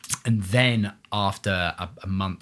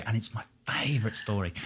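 whispering; 6 dB quieter than usual. Real, not acted. Building up a favourite anecdote.

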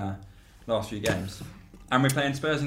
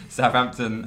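laughing; 3 dB louder, slower than usual. Real, not acted. Laughing after burp.

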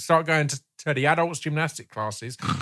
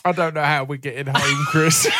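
laughing out the words; breaking up with laughter. Real, not acted. Laughing at Chris's answer.

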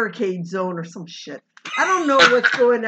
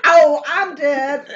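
mock dying; 4 semitones higher, 8 dB louder, much slower than usual.

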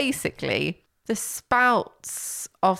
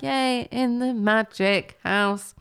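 cheery cartoon voice; 3 semitones higher, much slower than usual. Mimicking cheery cartoon intro.

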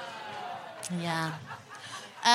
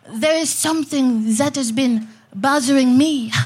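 bad French accent. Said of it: "that accent was so bad".

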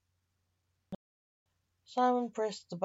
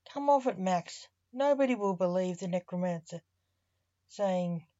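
dismissive, louder scoff; 4 dB louder than usual. Acted. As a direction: brush the idea off. Necromancer scoffs at Max.

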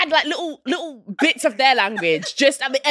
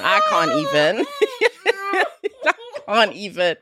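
laughing; 4 semitones lower than usual. Real, not acted. Laughing at cohost eating.

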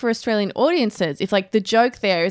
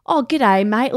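put-on old TV Ockerized Australian accent; mock old-fashioned Ocker Australian; super-Australian accent; 3 semitones higher, slower than usual. Shown as a demonstration. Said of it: "that kind of accent where everything for some reason is super Australian".

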